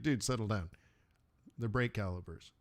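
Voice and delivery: imitated low, quiet deadpan reply; deadpan calming down. Car owner to a dude going ape crazy, deadpan calming down. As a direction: talk him down softly and low.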